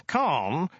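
high, pleading call; high and insistent; urgent interruption. Acted. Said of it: "interrupted Ogdai urgently".

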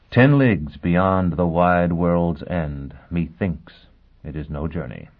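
measured, solemn verse reading; poem recitation. Acted. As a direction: recite it like an old ballad.

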